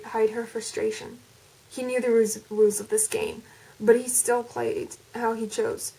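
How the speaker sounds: reading the fan fiction aloud in an attempted American accent; American accent story reading. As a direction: narrate the chapter in a put-on American accent. Do the entire thing in an American accent.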